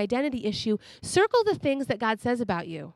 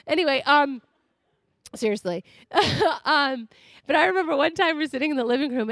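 ordinary delivery

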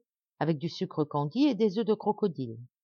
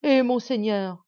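afflicted plea; 5 semitones higher, 6 dB louder, slower than usual. A narrator's reading. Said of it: "continua la reine affligée".

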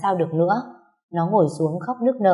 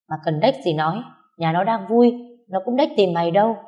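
scornful scolding. Acted. Friend scolding a heartbroken woman.

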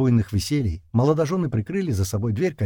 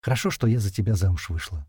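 sleepy; 2 semitones lower than usual. Acted. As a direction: say it half asleep. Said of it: "сонно проговорила Лора".

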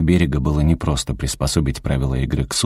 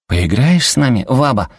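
put-on child asking; 8 semitones higher, 3 dB louder than usual. A narrator's reading. Grandson asks grandma to play.

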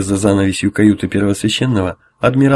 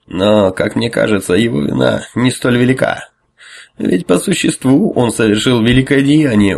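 barely hidden tension. Acted. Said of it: "с плохо скрытым напряжением в голосе".

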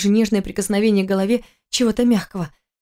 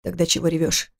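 строго; 2 semitones lower, 3 dB quieter than usual. Acted. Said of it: "спросил он строго".

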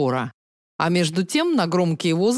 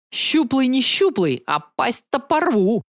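bloodthirsty snarl; 4 semitones higher, slower than usual. Acted. Heroine playing a convict threatens the skinny boy, slow bloodthirsty snarl. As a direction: growl it out slowly like a prison tough. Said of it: "кровожадно оскалилась я".

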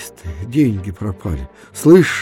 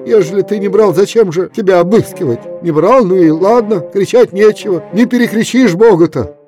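higher, loud stern rebuke; stern admonition; 7 semitones higher, 6 dB louder than usual. A narrator's reading. Efrem rebukes Kuzma, loud stern rebuke. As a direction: rebuke him.

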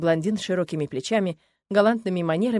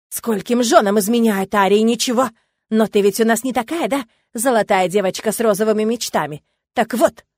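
mocking menace; 2 semitones higher, 8 dB louder than usual. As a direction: jeer at her naive dreams. Husband mocks and threatens. (издевательски, с угрозой, громко)

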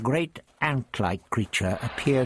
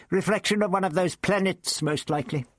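put-on raised, testy old man voice; the Doctor lectures Ian, smug and raised; 8 semitones higher than usual. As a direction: play the prickly old Doctor. Doctor dismissive.

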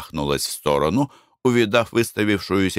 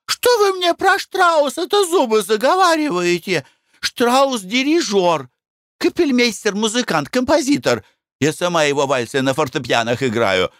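high-pitched disgusted lady; shrill-free high fussy wife voice; Glafira, squeamish lady. Acted. Glafira lectures about Strauss.

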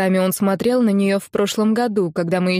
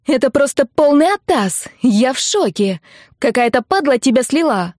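высоко и громче, в панике; завопи в трубку, выше и громче; вопит; 5 semitones higher, 4 dB louder than usual. Acted. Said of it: "Завопила она в трубку". (подруга в шоке вопит в трубку, высоко и громко)

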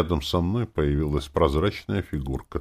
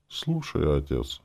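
ordinary delivery

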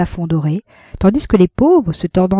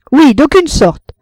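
slow, loud stagey proclamation; theatrical actor declaiming; 8 semitones higher, 6 dB louder than usual. A narrator's reading. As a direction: play it to the gallery. Actor's grand pose. (déclamation théâtrale lente)

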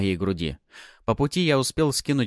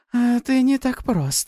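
high, slow, intrigued purr; eager thrill; 5 dB louder, slower than usual. Acted. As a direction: savour the challenge. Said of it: "в её голосе слышался азарт".

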